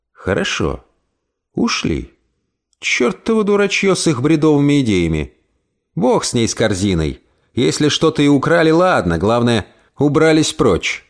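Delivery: put-on muttered old-woman grumble, slowing at the end; grumbling old aunt. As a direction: grumble to herself.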